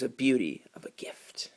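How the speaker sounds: hushed, breathless ad-copy whisper; very soft whispered aside; mocking whisper.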